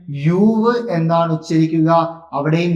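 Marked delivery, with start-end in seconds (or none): 0.1-0.7 "യൂവ്" starting with a Y glide; pronunciation demo. Shown as a demonstration. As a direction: sound out "യൂവ്" with a long oo after Y. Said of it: "ഉച്ചരിക്കുമ്പോൾ എങ്ങനെ വരും?".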